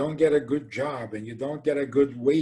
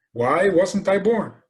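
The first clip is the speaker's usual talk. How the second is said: mock complaint; 6 semitones higher, 6 dB louder, slower than usual. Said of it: "complain that they weren't born".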